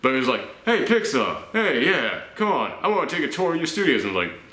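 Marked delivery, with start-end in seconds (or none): 0.7-4.0 higher-pitched mock Australian actor; Australian accent. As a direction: call out casually in jokey Australian. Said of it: "he's Australian in my version".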